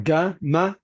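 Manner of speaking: "Ga, ma" swallowed into two quick syllables; clipped Australian greeting. Retold or imitated. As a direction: squash the greeting down to "Ga, ma". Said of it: "it's like".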